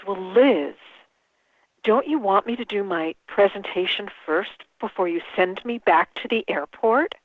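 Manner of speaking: lightly imitated calm guru, measured; calm Deepak way. Famous speaker teasing the frantic organizer, calm and unhurried. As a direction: take a breath, then a gentle, deliberate question. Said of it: "in his very Deepak way".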